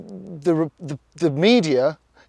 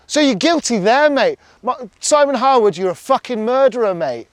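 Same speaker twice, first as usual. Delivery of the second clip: real anger, higher and louder; angry rant; 5 semitones higher, 3 dB louder than usual. Real, not acted. Addressing Simon Harwood directly, a higher, louder furious rant. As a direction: call the officer out, fuming.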